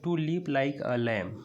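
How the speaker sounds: very slow, word by word; slow reading aloud. Shown as a demonstration. Teacher re-reading the line to students, very slowly. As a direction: read it out slowly for the class. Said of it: "तो like का मतलब यहाँ जैसे है".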